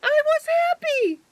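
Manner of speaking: laughing. Real, not acted. Laughing about fan post.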